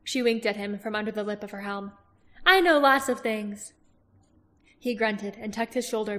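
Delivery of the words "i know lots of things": slow, higher teasing voice; sly herbalist. Acted. Herbalist teasing Roran, slow higher voice. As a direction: tease him with a wink.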